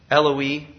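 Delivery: "Eloi" said as EL-oh-ee; original pronunciation. Shown as a demonstration. Preacher comparing it with Elijah, "Eloi" pronounced EL-oh-ee. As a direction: pronounce "Eloi" in three parts, stressed on the first. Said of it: "say it in its original pronunciation".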